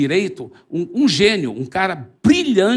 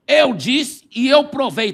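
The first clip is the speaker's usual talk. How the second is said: smug boast; 7 semitones higher, 4 dB louder, slower than usual. Acted. Atheist mocks Zé before crowd.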